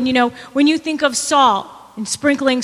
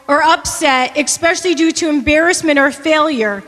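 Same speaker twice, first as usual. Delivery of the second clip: reading the definition. Shown as a demonstration. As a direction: read "Hostile or upset" out like a quoted definition. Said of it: "the dictionary dot com says".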